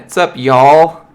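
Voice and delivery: hammed-up Georgia accent hello. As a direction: stretch it out in a thick Georgia accent. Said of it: "Don't make fun of my Georgia accent".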